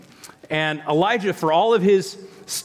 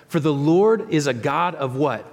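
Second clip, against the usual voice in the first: prompting the congregation. Real, not acted.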